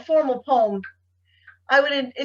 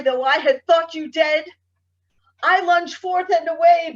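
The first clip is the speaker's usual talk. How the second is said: anguished poem recitation. Acted. Poet tells the leech it stayed too long, anguished recitation. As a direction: press on with feeling, then let the last phrases drop away.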